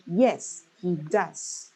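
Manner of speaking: "Yes" and "does" each emphasized; deliberate answer stressing "Yes" and "does". Shown as a demonstration. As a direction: lean on "Yes", then on "does". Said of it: "you put emphasis in this yes and does".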